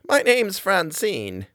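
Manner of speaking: high, slow granny voice, grinning; a slow, high old woman's grin; grinning old lady. Acted. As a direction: beam as you give your name. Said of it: "she grinned".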